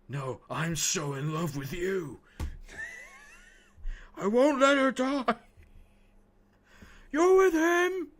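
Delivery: high, loud laughing overacted lines; hammed-up Anakin through giggles; mocking Anakin. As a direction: ham up the bad movie dialogue. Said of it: "the dialogue between him and Padme".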